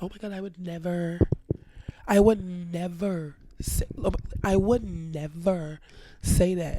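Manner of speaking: drawn-out mock-innocent denial; put-on innocent disbelief; innocent act. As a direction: imitate someone protesting their innocence, stretching the words. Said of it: "she kept doing this innocent act".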